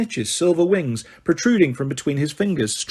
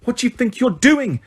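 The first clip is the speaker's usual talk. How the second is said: high, shrill-pitched outraged demand; screaming referee; 8 semitones higher than usual. Acted. Madam Hooch breaking up the fight, screaming. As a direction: scream at the brawling boys. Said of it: "screamed Madam Hooch".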